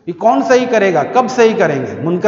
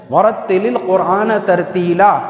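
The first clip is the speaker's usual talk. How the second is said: Quran recitation. Acted. Quotes the Quranic verse on tartil.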